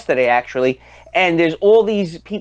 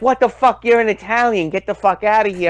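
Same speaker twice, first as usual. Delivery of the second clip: higher, hammed-up outrage; mock hostile rebuff; 6 semitones higher than usual. Klan members rejecting the Italian, mock outrage. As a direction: bark like an offended bigot. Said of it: "And they're like".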